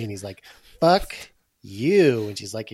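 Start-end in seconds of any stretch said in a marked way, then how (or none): 0.8-2.3 high, loud parrot cuss; squawking parrot. Retold or imitated. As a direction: screech it back like a rude bird. Rude parrot in a joke.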